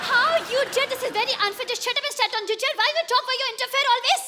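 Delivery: bossy teacher telling off; mock scolding. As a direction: scold him like a strict teacher.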